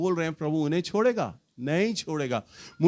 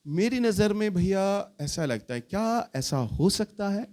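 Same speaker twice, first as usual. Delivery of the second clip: gentle suggestion; 3 semitones higher than usual. Shown as a demonstration. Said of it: "बहुत सौम्यता के साथ, बहुत gently".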